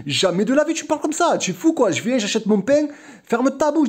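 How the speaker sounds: mock furious telling-off; retold outburst. The sister telling the man to shut his mouth, mock angry. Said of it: "elle a craqué".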